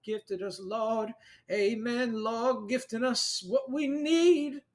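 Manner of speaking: high, rising worshippers' chorus; congregation. Acted. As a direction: call back to the preacher like a fervent flock. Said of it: "They're like".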